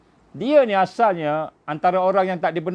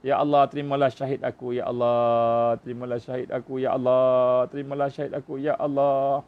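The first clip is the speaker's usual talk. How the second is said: lower, hushed, repeated prayer of a dying man; dying man's prayer; 5 semitones lower than usual. Retold or imitated. Preacher voices the shot youth praying at death, low and hushed. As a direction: murmur it as breath runs out, pleading. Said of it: "Tak boleh nak selamatkan".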